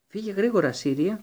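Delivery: Harry breathlessly urges Sirius to flee; out of breath. A narrator's reading. Breathless after landing, hurrying Sirius off. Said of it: "του είπε λαχανιασμένος".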